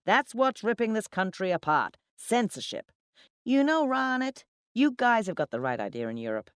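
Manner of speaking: loud, high, emphatic rant; talking too loudly. A narrator's reading. Drunken account manager ranting to colleagues, talking too loudly. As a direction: hammer out each point to the whole table. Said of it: "talking too loudly".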